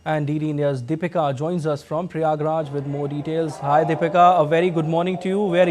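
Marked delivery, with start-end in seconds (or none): 0.0-3.6 measured, scripted news anchor delivery; news read. Acted. Anchor introduces the festival report to viewers, formal news read.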